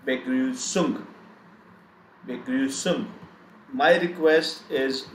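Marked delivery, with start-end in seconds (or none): 0.1-3.1 Begrüßung said whole, falling on the last syllable; pronunciation model. Shown as a demonstration. Teacher showing how we pronounce it, whole-word model. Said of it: "We pronounce it this way".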